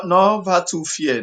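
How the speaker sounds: ordinary talk, nothing marked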